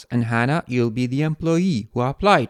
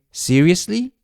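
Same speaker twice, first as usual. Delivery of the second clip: disbelief; 5 semitones higher than usual. Shown as a demonstration. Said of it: "shock or disbelief".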